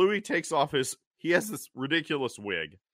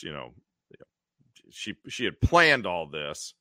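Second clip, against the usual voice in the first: usual speaking voice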